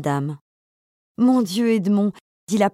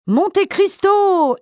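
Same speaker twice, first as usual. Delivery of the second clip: higher, slow, drawn-out furious cry; furious yell; 10 semitones higher, 3 dB louder, much slower than usual. A narrator's reading. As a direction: howl the name in rage as you burst in. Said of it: "hurle Fernand".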